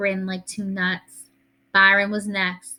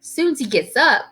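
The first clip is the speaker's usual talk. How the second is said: incredulous mama; 6 semitones higher, 3 dB louder, slower than usual. A narrator's reading. Mama in disbelief at Grandma's news.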